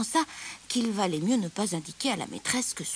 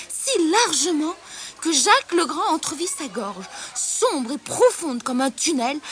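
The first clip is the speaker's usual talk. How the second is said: raised, louder suspenseful narration; dramatic storytelling; 5 semitones higher, 6 dB louder, slower than usual. A narrator's reading. Narrator showing the bully the lion's throat, dramatic telling. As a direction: build the menace of the gaping jaws. Tense telling of the gaping jaws.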